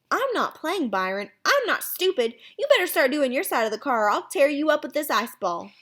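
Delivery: put-on high, firm kid's threat; annoyed warning. Boy threatens his brother.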